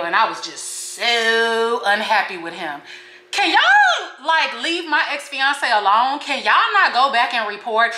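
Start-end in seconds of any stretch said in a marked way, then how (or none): 3.3-7.9 high, loud exasperated appeal; fed up, begging the viewers; exasperated plea. Real, not acted. Vlogger telling viewers to leave her ex alone, exasperated.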